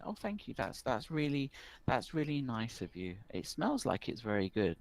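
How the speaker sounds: put-on a worried village boy pleading for help; young rural boy, worried. Rural boy explains his lost sister to the barkeep. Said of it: "He's like".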